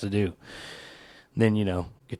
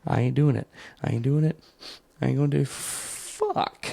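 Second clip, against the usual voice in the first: high, louder, strained voice trying not to cry, rushing the middle; fighting back tears; 5 semitones higher, 3 dB louder than usual. Pretend. Grown man in his car fighting tears over a music video, strained and high. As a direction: hold it together while you crack up inside. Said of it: "and you're like".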